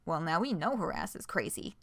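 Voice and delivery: plain reading voice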